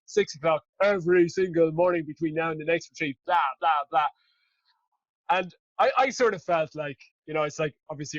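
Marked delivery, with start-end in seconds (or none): 0.1-4.1 mock bullish vow. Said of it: "more often than the fucking Dalai Lama".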